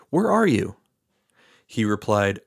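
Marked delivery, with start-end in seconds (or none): 0.1-0.8 high, carrying call into the garden. A narrator's reading. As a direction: call out to the hidden man. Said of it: "Then the Lord God called to the man".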